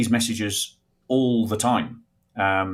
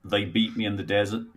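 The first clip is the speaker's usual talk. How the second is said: attempted American accent, a bit subdued; 4 dB quieter than usual. Shown as a demonstration. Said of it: "a, a s-, an American accent".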